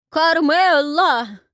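high, drawn-out slow call into the distance; long loud wail for a lost wife. Acted. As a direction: wail the name slowly across the street. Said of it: "голосил он".

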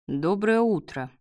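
ordinary delivery, nothing marked

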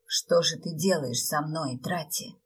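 plain reading voice

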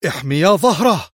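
loud, decisive order; firm command. A narrator's reading. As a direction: order the men with force. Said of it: "وأشار إليهما في حزم قائلا".

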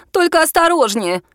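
high, scared little squeak; frightened squeak. A narrator's reading. Lexi warns Bogdan climbing the gate, frightened squeak. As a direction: squeak it out in fear. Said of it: "испуганно пискнула Лекси".

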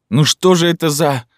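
high, loud whimpering complaint; loud high whining; whiny outburst. A narrator's reading. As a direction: whine it like a sick man at the end of his rope. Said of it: "Он захныкал".

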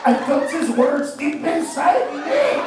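slow, loud, hammed-up hurt voice; mock wounded complaint. Comic mocking an offended fan, slow and hammed-up. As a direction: draw out the fake hurt feelings.

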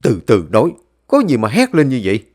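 understated irritated bark; mild scolding. Acted. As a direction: scold the noisy youngster. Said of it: "trừng mắt nhìn tôi rồi quát mắng".

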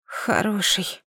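"Хороший" breathed out slow and soft, rising. Acted. Wounded mother echoing her daughter, "Хороший" breathed slowly. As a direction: exhale the word "Хороший" weakly. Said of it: "выдохнула я".

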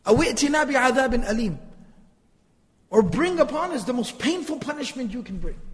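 mildly insolent, challenging delivery; disrespectful challenge. Acted. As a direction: act out a mild, insolent dare. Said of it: "this is the way they would speak".

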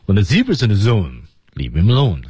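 "zone" and "alone" each glide down; falling tone. Shown as a demonstration. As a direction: land "leave him alone" on a falling tune. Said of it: "肯定是降调啊". (“leave him alone”读降调)

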